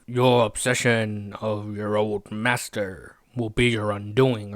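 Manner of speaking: slow, drawn-out Sith emperor voice, a hint of menace; lightly voiced scheming emperor, very slow; Palpatine. Recapping the show, voicing Palpatine to Vader, slow and mildly sinister. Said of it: "Palpatine's like".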